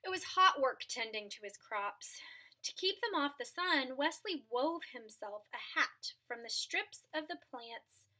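storybook narration for a class; read-aloud storyteller voice; reading to children. A narrator's reading. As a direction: tell the tale to the children. Reads a picture book aloud.

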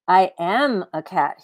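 slow, grand declaration; grandly. Acted. Cat announces himself grandly to the startled couple, slow and lordly. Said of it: "he said grandly".

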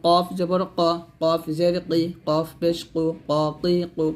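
"কফ" with a thick q from the back of the tongue; thick qaf. Shown as a demonstration. Teacher drilling qaf for learners, pronounced thick. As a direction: say "ক কি কু" heavy, from the tongue root, unlike a kaf. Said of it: "মোটাভাবে আদায় করতে হবে".

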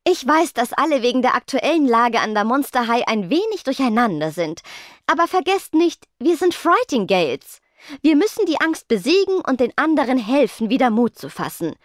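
rally the group with an emphatic announcement; proclaiming. A narrator's reading. Draculaura addresses her nervous club members, proclaiming encouragingly. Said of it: "verkündete Draculaura den nervösen Mitgliedern".

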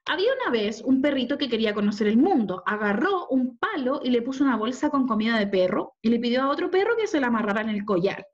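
put-on lilting children's story narration; story reading. Teacher reading the class a little dog's story, lilting storytelling. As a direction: read it like a tale, with swooping intonation. Reads her own dog story aloud.

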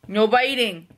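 ordinary delivery

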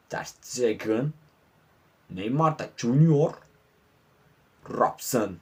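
lightly put-on English commentator accent; English announcer. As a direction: read the names like a British announcer. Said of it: "İngiliz spiker gibi konuşuyorum ha". (İngiliz spiker aksanı)

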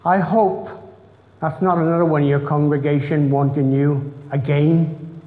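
a hint of a weary, irritated sigh; lightly voiced wife resenting another phone call. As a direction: grumble it lightly as a tired pastor's wife. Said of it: "and she said".

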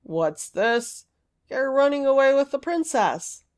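loud challenge from a huge giant; giant's huge voice. A narrator's reading. Giant confronting Kit over the princess, in a huge voice. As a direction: boom it out, accusing. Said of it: "in a huge voice".

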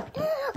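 soft anticipatory gasp. Pretend. Puppet making a friend, gasp. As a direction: draw a quick, soft breath.

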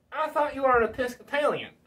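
high, puzzled puppet voice; Bill Clinton puppet. Acted. Puppet queries his handler's denomination, puzzled. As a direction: question it in a high character voice. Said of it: "Bill Clinton".

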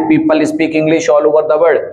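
very slow, each word set apart; slow dictation. Shown as a demonstration. Teacher repeating the example sentence for students, very slow. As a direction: read it out slowly for the class to follow. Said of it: "भाई आप समझ के देख सकते हो".

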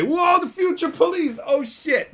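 loud, high mock amazement; pretend amazement. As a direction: ham up the wow for the chat. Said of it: "We're all gonna pretend".

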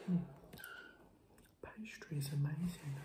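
talking while chewing; words muffled by food; mouth full. Real, not acted. Seen 0: pastry held at mouth, bites and chews while speaking.

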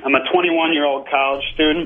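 tinny speakerphone line; talking through a speakerphone. Real, not acted. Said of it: "Are you on a speakerphone?".

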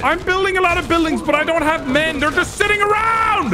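exasperated. Real, not acted. Men not moving in game.

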